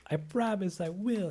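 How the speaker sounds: earnest promise. Retold or imitated. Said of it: "and I'm like".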